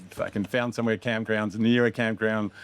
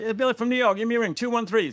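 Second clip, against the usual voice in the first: put-on drunk American bro; 14 semitones higher, 4 dB louder than usual. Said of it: "So we'd have Billy like".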